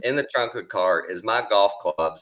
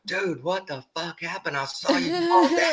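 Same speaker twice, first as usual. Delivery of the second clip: imitating shocked buddy; 11 semitones higher than usual. Buddy baffled after seeing the fall.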